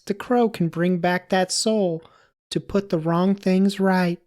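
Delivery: high, loud put-on child narrator; little girl voice. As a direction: raise it into a little girl's storytelling voice. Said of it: "do it in a little girl voice".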